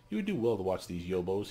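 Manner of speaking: gruff scholar muttering through teeth; mild clenched-teeth mutter. Acted. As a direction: grumble a warning, teeth clenched. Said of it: "he mutters, teeth clenched".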